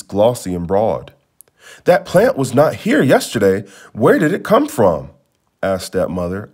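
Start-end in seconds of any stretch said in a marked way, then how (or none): 1.8-5.1 a touch higher, anxious questioning; alarmed, frightened. Acted. Stepmother frightened by the sudden banana plant, mild alarm. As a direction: sound spooked by the strange plant. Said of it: "alarmed and frightened".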